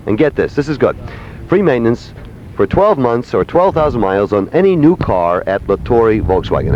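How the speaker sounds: low, casual sponsor pitch; live ad read. Real, not acted. Host reads a sponsor ad.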